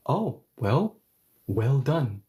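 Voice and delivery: mock congratulations with a swooping oh; sarcastic praise. Shown as a demonstration. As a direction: praise the friend and mean the opposite. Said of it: "or am I being sarcastic?".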